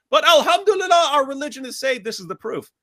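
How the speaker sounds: high, loud mock celebration; sarcastic triumph. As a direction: gloat sarcastically over the proof.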